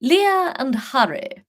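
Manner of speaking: posh English. Shown as a demonstration. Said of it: "Let's go posh English then".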